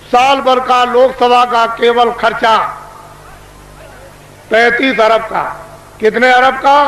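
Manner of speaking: booming orator addressing a crowd; booming political rally speech. Acted. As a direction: proclaim it to a packed rally.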